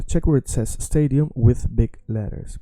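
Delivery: whispered practice line. Shown as a demonstration. Teacher whispering the example. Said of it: "whispered example".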